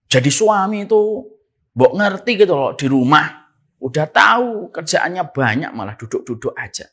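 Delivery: loud scolding complaint at the husband; nagging wife. Pretend. Wife nagging her husband loudly about housework. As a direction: scold him loudly for sitting around. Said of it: "Tidak usah kita berkata".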